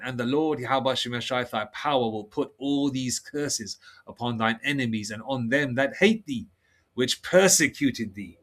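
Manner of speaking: slow, measured Bible reading; scripture reading. Acted. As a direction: read the verse out slowly and solemnly. Reads scripture aloud.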